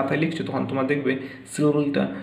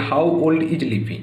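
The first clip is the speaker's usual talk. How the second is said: slow model reading; much slower than usual. Shown as a demonstration. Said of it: "এই সেন্টেন্সটা কি".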